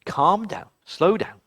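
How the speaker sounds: 1 calm mum. A narrator's reading. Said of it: "her mum said".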